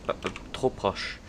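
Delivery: slow breathless whisper; relieved whisper. Real, not acted. Gamer after the explosion nearly hit him, whispering. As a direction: breathe it out after the close call.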